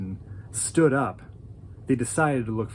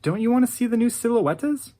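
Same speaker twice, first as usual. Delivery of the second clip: pleading; 9 semitones higher than usual. Retold or imitated. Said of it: "she started pleading with him".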